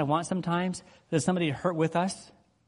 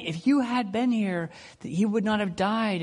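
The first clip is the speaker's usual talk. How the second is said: blunt pushback; 6 semitones higher than usual. Retold or imitated. Martha pushing Jesus about her brother, blunt reproach. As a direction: press the blame on him. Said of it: "she pushes him".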